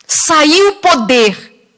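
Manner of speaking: "Saiu poder" drawn out very slowly, each word weighted; slow emphatic stress. Real, not acted. Preacher driving home "Saiu poder" to the church, slow and weighty. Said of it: "Mas presta atenção".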